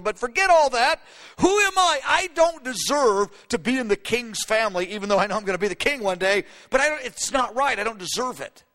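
high, rising protest of unworthiness; insist, amazed, that you don't deserve it; humble amazement. Acted. Future king marveling at marrying into the royal family, humbly amazed. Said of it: "He has this outrageous understanding".

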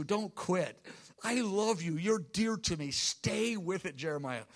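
a hint of the Lord's tender voice; tender reassurance. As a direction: comfort the weary prophet gently.

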